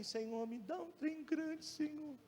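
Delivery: very soft, slow mock plea; small, half-hearted begging to God; feeble pleading prayer. Shown as a demonstration. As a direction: demonstrate a timid prayer that undercuts the big request. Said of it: "pedindo assim".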